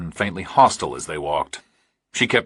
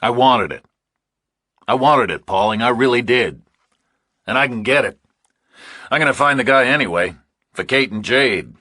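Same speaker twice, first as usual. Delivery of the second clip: a higher, louder, insistent man pushing his deal; eager bargaining man; 3 semitones higher, 3 dB louder than usual. Acted. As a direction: press the offer hard, voice raised and eager. Character pressing his case.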